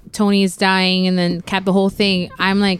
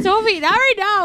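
hushing mom; 9 semitones higher than usual. Retold or imitated. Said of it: "we're just like".

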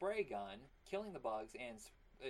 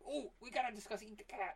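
excited; 10 semitones higher than usual. Real, not acted. Excited about cartoon.

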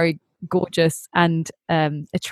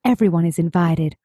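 breathless gossip narrator voice; a light hint of the Gossip Girl narrator; Gossip Girl impression. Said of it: "shall I do my best Gossip Girl impression".

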